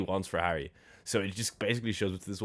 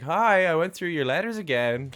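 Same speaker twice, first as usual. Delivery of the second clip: higher and louder, hamming up the woman in the film; mock high woman's voice; 9 semitones higher, 6 dB louder than usual. Retelling the film's creepy woman to a friend, hammed up high. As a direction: put on a squeaky put-on woman voice. Mocking the woman character's line.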